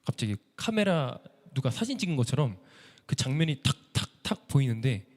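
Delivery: usual speaking voice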